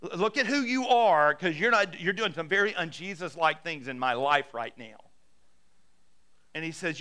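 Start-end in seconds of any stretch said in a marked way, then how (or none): 0.0-5.0 exasperated prayer. Acted. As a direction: call Jesus to account, mock-indignant. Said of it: "opened up your Bible going".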